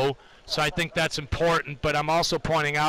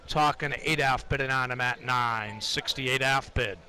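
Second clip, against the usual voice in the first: trading floor price calls. Acted. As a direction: call the bids in a monotone chant. Live price ladder callouts.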